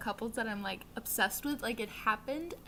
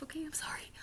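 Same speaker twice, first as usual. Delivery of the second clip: whispered apology; 5 semitones higher, 7 dB quieter, faster than usual. Real, not acted.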